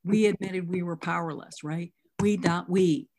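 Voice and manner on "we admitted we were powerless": "We" and "we" picked out with emphasis; stress on "We" and "we". Shown as a demonstration. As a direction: lean on "We" at the start and "we" after "admitted". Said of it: "The first and the third word".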